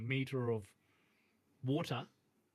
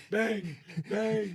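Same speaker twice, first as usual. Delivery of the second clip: imitated gunshots; 8 semitones higher, 5 dB louder than usual. Acts out imagined shooting at pigs.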